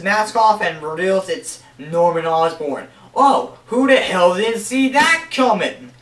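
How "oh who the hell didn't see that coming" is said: sarcastic. Real, not acted. Sarcastic aside on obvious reveal.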